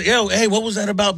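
lightly put-on manly challenge; mildly manly "yo, hey" delivery. Shown as a demonstration. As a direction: say it with a hint of macho confrontation. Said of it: "in my manly voice".

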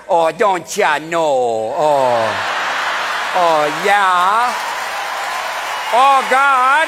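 put-on slow Minnesota accent, don't ya know; broad Minnesota local. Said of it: "or like".

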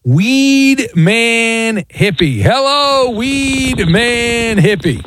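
drawn-out announcer intro. Acted. Host introduces caller on air.

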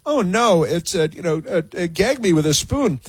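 a hint of a teen Valley Girl gushing. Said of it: "Valley Girl stuff".

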